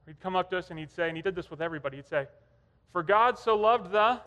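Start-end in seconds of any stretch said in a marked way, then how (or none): 2.9-4.2 "the" left hanging for an answer; slow recital, stop open on "the"; unfinished prompt. Retold or imitated. Grandfather making boys finish the verse, "the" left hanging. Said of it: "he'd make us finish it".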